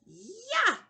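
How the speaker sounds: sharp high shouted "Ya."; karate chop yell. Shown as a demonstration. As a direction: chop the air with a loud "Ya.". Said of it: "Think of a karate chop".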